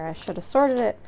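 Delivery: talking through hiccups; suppressing hiccups. Real, not acted. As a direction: keep talking while hiccuping. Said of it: "Sorry, I have hiccups right now".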